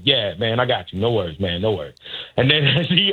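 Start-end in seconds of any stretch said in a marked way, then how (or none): 0.0-2.0 lightly acted casual cool, pitch sinking low; playing it cool. Caddy outwardly reassuring his golfer, mock-cool and low. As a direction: toss it off low, as if unbothered. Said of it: "I gotta be cool".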